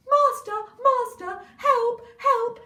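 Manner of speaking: the stolen harp calls its master, high and loud; harp crying for help. Acted. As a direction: cry out to the master in alarm. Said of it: "it went".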